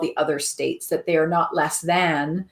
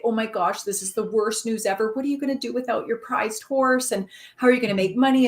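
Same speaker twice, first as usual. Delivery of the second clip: higher-pitched mock panic of worried neighbours; panicked neighbours; 5 semitones higher than usual. Neighbours visit farmer about missing horse, mock panic. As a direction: retell their fretting, pitched up and rushing at the end. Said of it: "they're panicking".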